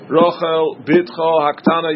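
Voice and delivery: "Rochel Bitcha Haktana" with a separate beat on each word; stressing every word. Shown as a demonstration. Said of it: "stress every single word".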